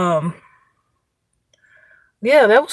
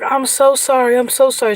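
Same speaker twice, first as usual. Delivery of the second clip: higher-pitched mock-panicked apology; raised pitch, mildly frantic repeated apology; retold panicked apology; 5 semitones higher than usual. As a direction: imitate a flustered woman apologizing, lightly. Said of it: "She was in a panic".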